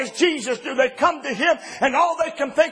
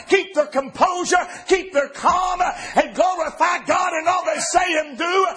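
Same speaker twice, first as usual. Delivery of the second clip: preaching at full force; 4 semitones higher than usual. Acted. Preaching climax.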